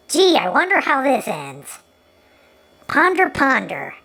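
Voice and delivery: drawn-out mock pondering; mock wondering. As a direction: ham up the fake suspense. Sarcastic guess at obvious crash.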